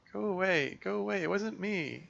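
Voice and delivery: frightened cry. Acted. Girl crying out at the voice in her head, high frightened shout. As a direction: shout it away in panic.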